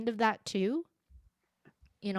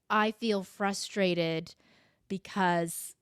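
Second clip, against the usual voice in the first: calm I-statement; slower than usual. Shown as a demonstration. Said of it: "is how I need to explain things".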